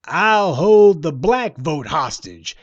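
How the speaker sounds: mock him as a self-important boast; mock quote of a rapper. Commentator mocking the rapper's hostage threat, slow and weighty. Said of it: "He said".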